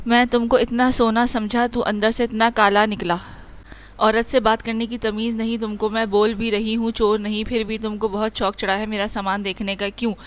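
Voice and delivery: heated, rising scolding; picking a fight. Acted. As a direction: tell him off, spoiling for a fight. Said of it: "باقاعدہ سے لڑنے کے mood میں".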